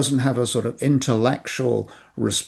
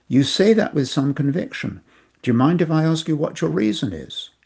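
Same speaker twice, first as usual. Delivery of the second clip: respectful; 4 semitones higher than usual. Shown as a demonstration. Salesman showing students the respectful reply, gently lifted. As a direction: acknowledge them, then ask kindly. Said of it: "you are being so respectful and saying".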